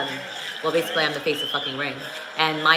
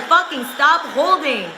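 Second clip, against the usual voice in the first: higher and louder, laughing; excited yell; 8 semitones higher, 4 dB louder than usual. Real, not acted. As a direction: shout at the screen. Reacting to clinching in the fight.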